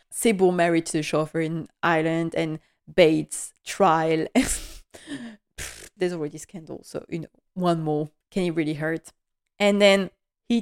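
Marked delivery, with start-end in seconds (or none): 4.3-5.9 dismissive pfft. Real, not acted. Dismissing one more scandal.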